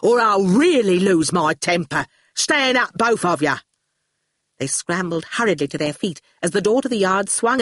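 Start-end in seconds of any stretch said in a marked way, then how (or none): 0.0-3.6 bossy gang-boss warning; Shine threatening. Acted. Shine warns Howard and Awful, threatening. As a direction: order them up as temper frays.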